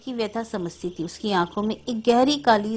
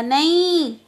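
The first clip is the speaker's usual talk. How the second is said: a higher, louder cry of no; mild mock shriek of a scared boy; a child waking up screaming; child's scream; 6 semitones higher, 4 dB louder, much slower than usual. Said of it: "उसी तरह चीखने लगा".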